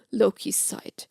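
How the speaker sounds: usual speaking voice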